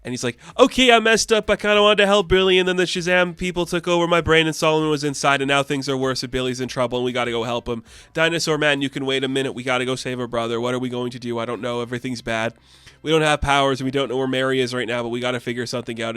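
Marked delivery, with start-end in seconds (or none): 0.6-7.8 starts high and loud, then sinks in a rushed ramble; frantic confession. Acted. Freddy's rushed confession, acted. 8.1-16.2 put-on rushed run-on kid plea, trailing downward; frantic rambling. Freddy keeps rambling, acted.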